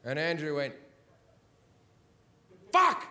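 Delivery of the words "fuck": high, loud sudden swear; a friend's shocked outburst, up high; retold sudden curse. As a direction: blurt it in a shocked yell. Andrew realising the problem.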